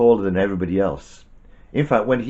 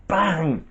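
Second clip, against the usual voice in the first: higher-pitched spoken bang; imitated bang; 8 semitones higher than usual. A narrator's reading. Storyteller voices the stone hitting, sudden bang. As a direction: make the stone's impact pop.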